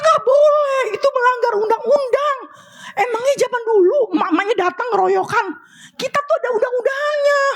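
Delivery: high, mock-outraged telling-off; mock indignant scolding. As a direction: play up the indignation, pitched high. Retold telling off angry mother. (teguran pura-pura marah, nada tinggi)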